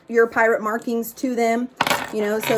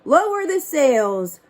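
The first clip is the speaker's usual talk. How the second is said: shouted order; 4 semitones higher, slower than usual. Acted. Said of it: "Braidbeard shouted".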